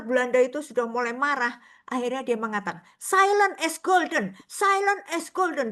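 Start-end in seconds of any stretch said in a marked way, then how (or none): 3.0-5.7 high, slow self-calming mantra; holding back anger with a repeated phrase; nun restraining anger. Retold or imitated. Dutch nun muttering to herself when angry, high and slow.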